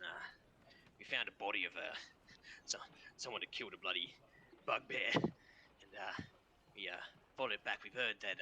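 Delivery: lightly voiced, halting captive telling his story; captive prisoner bargaining. Prisoner explaining the axe to his interrogator, halting and subdued.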